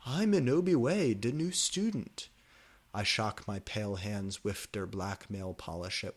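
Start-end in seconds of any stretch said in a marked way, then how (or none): 0.1-2.3 high, bubbly schoolgirl voice; girly introduction. A narrator's reading. New girl meeting the goth boy, high and bubbly. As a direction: introduce yourself sweetly.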